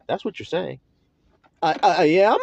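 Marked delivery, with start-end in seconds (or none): 1.6-2.4 higher, stammering mock disbelief; startled listener. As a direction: act taken aback, tripping over the question.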